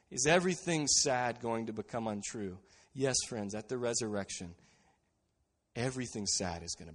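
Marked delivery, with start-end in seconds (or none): 0.1-2.6 laughing through the question; chuckling, delighted repetition. Real, not acted. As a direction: let the joy spill into the quote. Repeats quote with a laugh.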